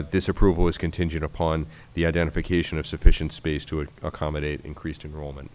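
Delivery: stuffy nose, nasal tone. Real, not acted. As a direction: reads with a nasal voice. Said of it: "apologize for my, uh, nasal voice this evening".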